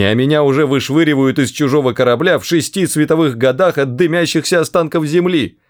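high-pitched run-on complaint; wailing lament. A narrator's reading. Arthur bewailing his lost planet, high lamenting. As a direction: pour out your grievances in a high, plaintive stream. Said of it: "запричитал Артур".

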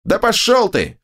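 high, creaking snap; the ogre snaps back at the hero; snapping ogre. A narrator's reading. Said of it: "огрызнулся скрипучий голос".

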